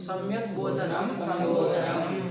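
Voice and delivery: slowly repeating सम्यक बोधनम and संबोधनम. Shown as a demonstration. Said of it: "संबोधन मतलब क्या?". (धीरे से दोहराना)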